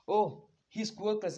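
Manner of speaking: high, slow, mocking tone; dismissive sneer. Izumi telling Bakugo about Deku, high and sneering. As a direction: toss it off with scorn. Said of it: "she's like".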